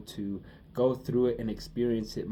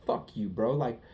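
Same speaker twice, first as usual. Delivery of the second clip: mock outrage; 3 semitones higher than usual. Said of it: "'cause I'm like".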